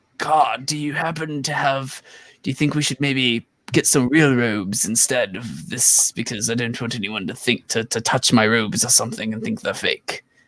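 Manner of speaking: put-on old man voice. Voicing a hunched old prophet asking about robes: old man voice. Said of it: "is a good voice? ... am I old enough?".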